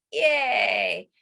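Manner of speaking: bright yay; happy yay; cheer. Shown as a demonstration. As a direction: cheer them on.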